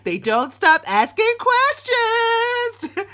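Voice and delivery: high, loud, slow line broken by laughter; the universe teasing a tired parent, laughing; laughing mock. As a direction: laugh through it while drawing it out high.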